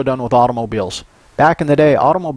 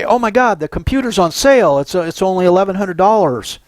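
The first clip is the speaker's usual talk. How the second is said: mock excitement; 5 semitones higher than usual. Customer excited about sale price.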